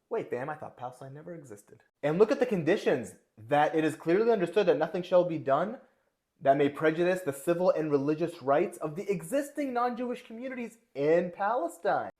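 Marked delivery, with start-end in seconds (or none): 2.0-12.1 bad British accent, louder and higher; terrible British accent. Reading the declaration's conditions in a louder, higher terrible British accent. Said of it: "I'm gonna do it in a terrible British accent".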